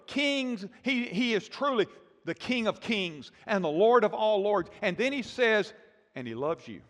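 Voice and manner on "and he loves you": much lower and softer, almost confiding; gently hushed declaration of love; soft tender hush. Acted. Tender punchline of God's love.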